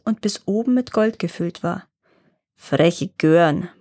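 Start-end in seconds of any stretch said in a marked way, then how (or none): 2.6-3.7 slow, lower grumble; dwarf grumbles at the girls, low and slow; grumbling. Acted. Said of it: "brummte er".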